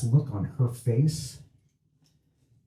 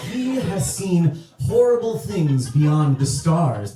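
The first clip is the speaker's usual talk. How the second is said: slow, higher-pitched tale of cosmic horror; understated doom-laden storyteller; mild dramatic dread; 4 semitones higher, slower than usual. Acted. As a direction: draw it out with a touch of grave theatre. Second guy describes cosmic horror.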